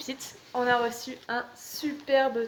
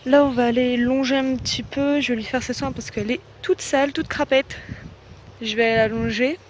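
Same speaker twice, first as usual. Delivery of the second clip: raised voice against the wind; shouting over wind; 6 dB louder than usual. Real, not acted. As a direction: talk loud over gusts outdoors. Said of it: "je sais pas si vous m'entendez avec le vent".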